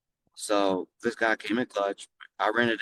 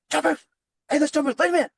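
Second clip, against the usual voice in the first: high, loud call over a microphone; loud mic announcement; 5 dB louder than usual. Retold or imitated. Host on the yacht PA calls to let him in, loud and high. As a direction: boom it out like an announcer on the PA. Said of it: "you hear over the microphone".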